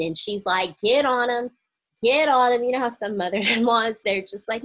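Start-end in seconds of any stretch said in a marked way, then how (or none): 0.8-2.6 louder, emphatic hype-man push; egging on. Retold or imitated. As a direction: cheer her on against her son, urging him. Voicing the supportive mother-in-law.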